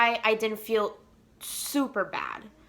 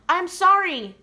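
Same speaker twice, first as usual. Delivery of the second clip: higher-pitched, excited retelling; eager retold message, pitched up; excited mom; 5 semitones higher than usual. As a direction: bubble over with held-in excitement. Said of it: "I want to scream and yell of excitement".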